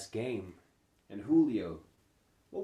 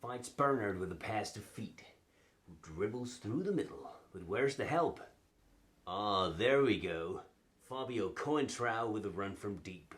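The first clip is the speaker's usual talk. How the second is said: lively play-by-play with surging names; football commentary. Acted. Man commentates on a vanished waiter, as football play-by-play. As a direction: call it like a match commentator.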